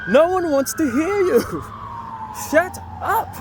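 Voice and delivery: shrill, very high and loud scolding; cussing old lady. Retold or imitated. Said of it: "you could hear her cussing him out".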